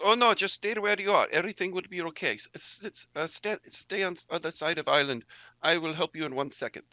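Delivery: put-on fussy old nun stalling the strangers; Sister B's voice. Sister B stalls the approaching men with halting English. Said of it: "this is where Sister B goes".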